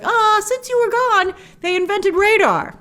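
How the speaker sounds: high, slow, patient correction; dry correction. Retold or imitated. Wonder Woman correcting her date in the plane, high and slow. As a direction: spell it out gently to a clueless date. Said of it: "And she's like".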